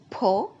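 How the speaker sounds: "Po" as a separate, stressed syllable. Shown as a demonstration. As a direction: set "Po" apart as the stressed beat. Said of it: "having a stress on it".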